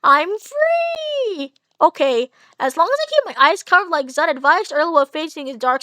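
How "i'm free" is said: high villainous cry; evil voice. Acted. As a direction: shriek it like a freed demon. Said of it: "Evil voice".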